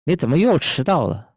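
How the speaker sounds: high Mandarin chiding with a punch on 又; exasperated demo reprimand, falling at the end; scolding reproach. Shown as a demonstration. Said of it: "perasaan menegurnya tuh sama".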